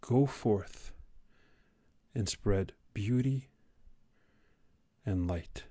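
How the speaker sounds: soft, slow quoted blessing; teacher's benediction. Retold or imitated. Podcaster quoting English teacher's class farewell, quiet benediction. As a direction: recall the motto reverently, with long pauses. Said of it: "He said".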